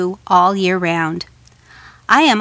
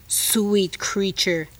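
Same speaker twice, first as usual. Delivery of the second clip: coaxing spider voice; 5 dB quieter, much slower than usual. Acted. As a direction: lure her gently like a spider. Spider slow flattery.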